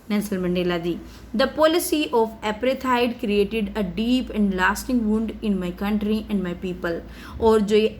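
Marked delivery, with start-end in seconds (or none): 1.4-7.0 plain reading. Acted. Reads speech text.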